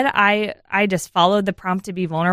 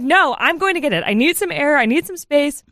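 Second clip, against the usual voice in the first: retold exasperation; 6 semitones higher than usual. Retold outburst to husband.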